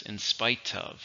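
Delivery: "in spite of" said slowly, stressed on "spite"; slow down and lean on "spite" in "in spite of". Shown as a demonstration. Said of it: "spite is what gets, it's what gets the stress".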